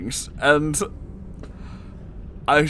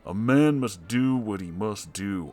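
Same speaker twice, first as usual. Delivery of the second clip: lightly voiced Garfield; 4 semitones lower, 3 dB quieter than usual. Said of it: "said Garfield".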